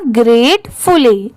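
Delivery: ग्रेटफुली slowly, split as ग्रेट and फुली; word in parts. Shown as a demonstration. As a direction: say ग्रेटफुली in two drawn-out halves. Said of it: "पर पूरा मिला देंगे तो". (ग्रेटफुली को धीरे, दो हिस्सों में बोलें)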